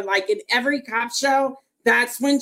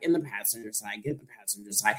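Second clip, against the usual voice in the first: much lower and softer officer's order; cop voice; 11 semitones lower, 11 dB quieter, faster than usual. Retold or imitated. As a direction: imitate a calm cop giving orders. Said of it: "And he was like".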